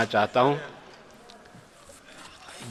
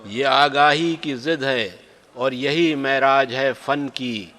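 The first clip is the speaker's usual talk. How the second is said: stately nazm recitation. Acted. Poet recites his nazm.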